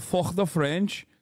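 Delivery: drawn-out imitation Scouse accent. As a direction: mimic a Scouser, stretching the words. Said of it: "The way he said".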